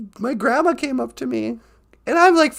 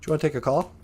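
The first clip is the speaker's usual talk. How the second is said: much lower put-on voice; deep co-host voice; 10 semitones lower, 4 dB quieter, much faster than usual. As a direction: ask like a deep-voiced sidekick.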